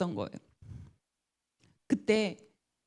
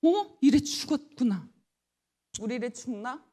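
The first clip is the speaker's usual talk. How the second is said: panicked fear; 5 semitones higher than usual. Retold or imitated. Panicked mother on phone.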